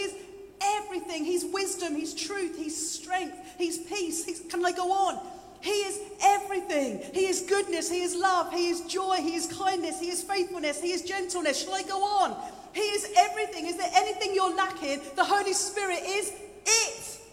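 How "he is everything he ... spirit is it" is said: raised, insistent preacher's cadence; impassioned preaching. Acted. Preacher listing what the Holy Spirit is, impassioned. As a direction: preach it as an emphatic list.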